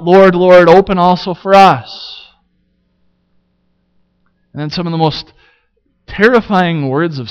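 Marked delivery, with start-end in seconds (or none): 0.0-2.3 raised, pleading call through a shut door. Retold or imitated. Foolish girls at the door, pleading to be let in, a raised call. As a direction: beg loudly to be let in. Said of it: "calling out".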